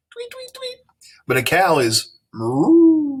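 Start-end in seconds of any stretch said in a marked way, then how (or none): 0.1-0.8 very high soft tweeting; bird tweets. Shown as a demonstration. Teacher imitating a bird for the class, high soft tweets. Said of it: "because it's a high pitch". 2.3-3.1 loud slow moo; low out a long cow moo. Shown as a demonstration. Teacher imitating a cow for the class, loud slow moo. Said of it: "So it's got a low pitch".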